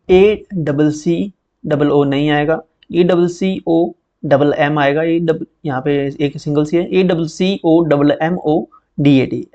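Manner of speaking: slow letter-by-letter spelling. Shown as a demonstration. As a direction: spell it out slowly, one letter at a time. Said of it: "जो correct spelling है". (अक्षर-अक्षर धीरे बोलना)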